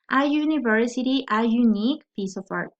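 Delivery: "university" and "unique" begun with "yu" after "a"; initial Y sound. Shown as a demonstration. Teacher giving article examples, Y sound opening "university" and "unique". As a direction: put a Y at the start of "university" and "unique". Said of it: "va a ser como una Y".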